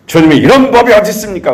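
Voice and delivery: jab a finger and demand answers; indignant protest. Retold or imitated. Disciple confronting Jesus, high indignant accusing cry. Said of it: "삿대질하면 따지는 거죠".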